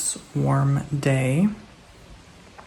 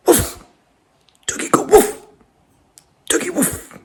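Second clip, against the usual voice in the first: much higher squeaky doggy voice; squealing baby-talk woofs; high mock bark. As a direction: egg the dog on in a squeal. Urging the dog to bark.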